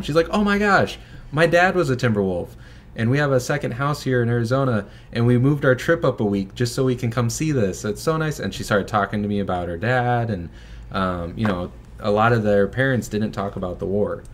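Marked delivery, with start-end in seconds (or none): 0.3-8.4 high, hammed-up New York accent; imitating a chatty New York lady, pitched way up. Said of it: "like, a thick New York accent".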